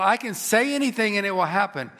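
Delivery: a touch of self-exalting boast; emphatic mock boast of a self-made god; lightly voiced Pharaoh. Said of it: "He saw himself above all".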